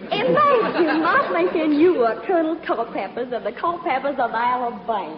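flirty fake Southern belle accent; southern belle act. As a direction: coo at him like a Southern belle. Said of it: "my little old southern routine".

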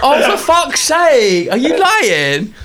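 slow, high laughing groan; laughing disbelief. Real, not acted. Laughing at her friend for fooling her, laughing groan. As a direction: laugh it out after being fooled.

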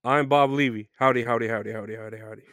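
lightly voiced Bob Levy, howdies fading; a light impression trailing off. Shown as a demonstration. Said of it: "my impression of Bob Levy".

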